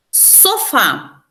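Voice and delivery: SOFÁ with the final FÁ strong; stress on last syllable. Shown as a demonstration. Teacher showing why it is oxítona, last syllable stressed. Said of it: "A última sílaba for-, forte".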